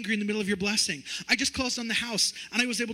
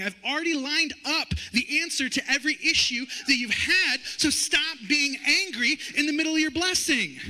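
booming divine voice urging joy; preaching God's rebuke; 5 semitones higher than usual. Acted. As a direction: proclaim it like a rebuke from above. God's words preached forcefully.

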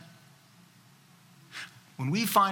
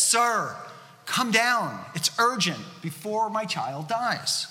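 urgent begging; 3 semitones higher, slower than usual. Acted. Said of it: "So the official begs again".

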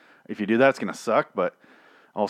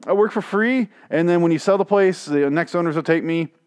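higher, laughing, begging to stay on; a ghost maid begging to stay, high and playful; pleading maid voice; 7 semitones higher, 3 dB louder than usual. Retold or imitated. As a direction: wheedle your way into keeping the job. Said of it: "And so she's just like".

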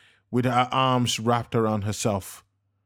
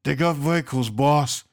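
louder, higher warning call; urgent yell; 4 semitones higher, 3 dB louder than usual. A narrator's reading. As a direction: call the alarm to the boss. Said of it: "yelled out urgently".

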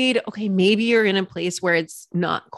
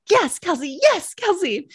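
high, rising mock ecstasy; lightly hammed ecstatic yes; mock porn moan; 9 semitones higher than usual. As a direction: ham up a breathy yes. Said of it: "it sounds like I'm filming a porno".

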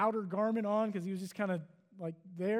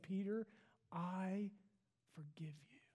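soft, hushed forgiveness, fading into a whisper; whispered, tender forgiveness; 9 dB quieter than usual. A narrator's reading. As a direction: breathe it gently like a pardon. Jesus tenderly forgiving Peter.

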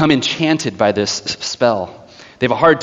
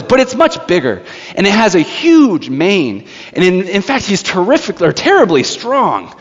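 higher-pitched, imitated insistent child; eager insistence; 5 semitones higher than usual. Child insisting the lion is real, high and eager. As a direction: press on eagerly as a child would.

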